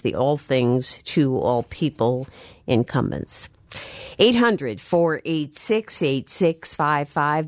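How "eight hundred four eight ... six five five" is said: slow number read. Shown as a demonstration. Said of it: "reading out the call-in number".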